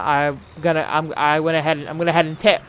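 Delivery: mushy words around a retainer; struggling to speak with retainer in; retainer lisp. Real, not acted. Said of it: "It's making it very hard to speak".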